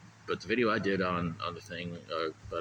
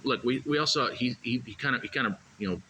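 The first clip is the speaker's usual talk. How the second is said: mock fan voice; 4 semitones higher, 3 dB louder than usual. Imitating crowd mocking injury.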